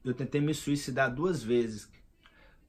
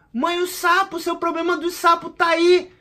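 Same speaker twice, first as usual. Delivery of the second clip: much higher and louder revelation; excited exclaim; 13 semitones higher, 7 dB louder than usual. Retold or imitated. Son shouts the answer to his puzzled mother, loud and high. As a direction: blurt out the discovery.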